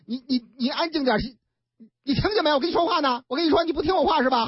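fast, rising irritated scolding; scolding the baby. Acted. Mother yelling at crying baby.

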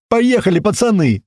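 high, loud gleeful shout; joyful war cry; joyful yell. Acted. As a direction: whoop it out with glee. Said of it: "Радостно орёт сзади Котлета".

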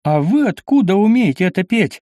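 put-on a startled young knight blurts it out loud; loud exclamation. A narrator's reading. Zbyszko hears the old song and exclaims loudly. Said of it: "громко воскликнул".

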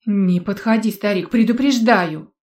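loud warning threat; threatening. Acted. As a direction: warn him off hard. Threatening the old man.

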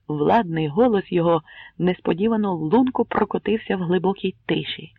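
ordinary delivery, nothing marked

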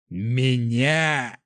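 drawn-out, choked word; spitting it out. A narrator's reading. Dying prince in disbelief, choked spitting. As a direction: force it out past rising blood. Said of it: "выплюнул он, чувствуя, как кровь".

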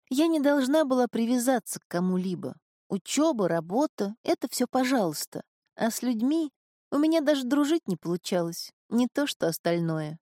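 a hint of a resigned young woman. Marin explains.

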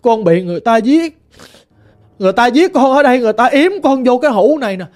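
lightly voiced ghost girl, plaintive and mournful; a hint of a lost spirit lamenting.

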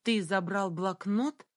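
slow, every word of "Ты забрал блокнот?" hammered out; clipped, each word stamped. A narrator's reading. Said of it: "отчеканила я".

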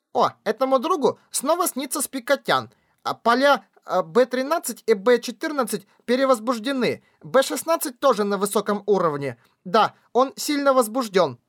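high squeaky slug voice. Acted. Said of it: "произнёс писклявым голосом".

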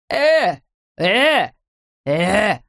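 short rising-falling yelps; horrified cries. A narrator's reading. Policeman poked with a gun, crying out in horror. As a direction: separate alarmed yelps with gaps between. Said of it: "в ужасе закричал полицейский".

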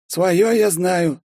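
high, very slow and dry; emotionless scribe. A narrator's reading. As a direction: say it flat and bored. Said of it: "также без эмоций ответил писарь".

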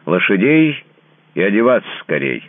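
loud, high barked order to the footman; commanding order. A narrator's reading. Master shouting for horses to the footman, loud order. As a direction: shout it at the servant, impatient. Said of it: "отдал он приказание".

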